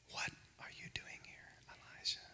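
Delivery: faint whisper, barely audible; still small voice. Acted. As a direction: whisper like a voice at your ear. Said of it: "in the whisper".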